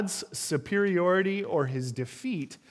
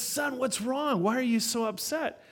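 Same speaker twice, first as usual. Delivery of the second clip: gentle concern; 7 semitones higher than usual. Retold or imitated. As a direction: comfort the crying boy gently. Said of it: "he says".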